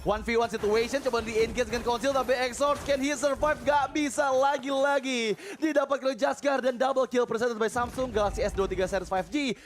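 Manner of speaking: high excited caster voice; fighting game announcer. Acted. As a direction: keep the hype up through the kill. Continued hype call.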